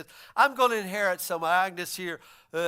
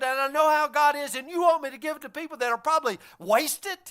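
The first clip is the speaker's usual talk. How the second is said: higher, complaining self-justification; indignant rich man; 4 semitones higher than usual. Acted. Preacher voicing the rich man justifying himself to Jesus, indignant. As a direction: whine your defense of wealth.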